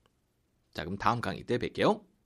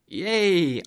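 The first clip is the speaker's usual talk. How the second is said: high, loud happy "Yay!"; joyful yelp; excited cheer; 8 semitones higher, 7 dB louder than usual. Acted. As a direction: cheer like you just got a day off. Acted cheer in dialogue.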